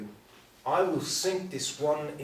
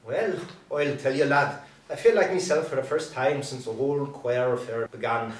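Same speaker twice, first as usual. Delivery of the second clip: put-on tipsy, playful Irish accent; a light Irish lilt, a bit merry. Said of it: "affects an Irish accent well suited to his tipsy disposition".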